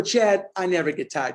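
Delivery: half-hearted. Retold or imitated. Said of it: "No, I want you to say it like you mean it".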